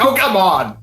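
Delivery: normal talking voice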